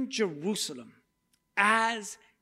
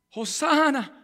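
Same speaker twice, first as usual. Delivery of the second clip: crowd shout; 8 semitones higher, 7 dB louder than usual. Retold or imitated.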